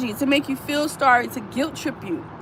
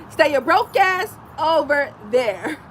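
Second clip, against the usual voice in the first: slow, amused brush-off; laughing dismissal; slower than usual. Real, not acted. Telling broke people to stay away, slow and amused. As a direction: laugh it off slowly.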